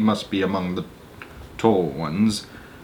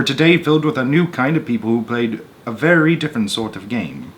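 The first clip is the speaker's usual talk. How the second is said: measured read-aloud narrator voice; story narration; 3 semitones higher, 3 dB louder than usual. A narrator's reading. Reading a Roald Dahl story to an audience, storyteller voice. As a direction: tell the tale steadily to listeners.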